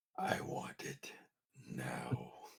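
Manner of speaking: breathy, creeping, whispered demonic creature voice. Still holding on to an item, the character speaks in a demonic Gollum voice. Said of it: "His demonic voice".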